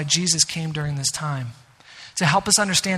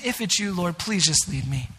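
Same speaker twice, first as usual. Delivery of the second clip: hushed prayer; 3 semitones lower, 5 dB quieter than usual. Acted.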